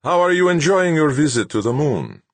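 high, singsong, reedy character voice; reedy but melodious. A narrator's reading. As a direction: greet floridly in a high, piping lilt. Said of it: "his voice reedy but melodious".

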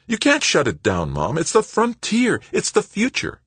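high-pitched, urgent appeal; impassioned pleading. A narrator's reading. Son begging his mother not to shut it down, impassioned.

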